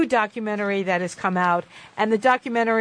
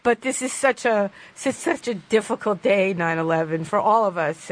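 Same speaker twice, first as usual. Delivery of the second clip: choked up, real. Real, not acted. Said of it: "I don't mean to cry".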